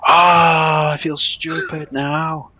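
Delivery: high, drawn-out mock Polish realisation; imitated Polish accent. Polish buyer realising he has the wrong address, mock Polish accent. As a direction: groan it slowly in a put-on Polish accent. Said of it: "Very Polish".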